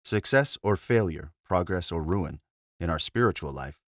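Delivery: measured, deliberate reading with clear phrase breaks; audiobook-style reading. Acted. Reader recording an abbot's talk on marriage, measured formal narration. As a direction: read it out as a formal spiritual discourse. Reads book aloud after intro.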